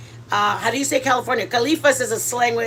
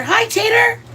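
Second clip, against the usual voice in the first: much higher cooing hi to the dog; 10 semitones higher, 3 dB louder than usual. Real, not acted. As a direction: coo at the puppy in a high voice. Greeting the dog.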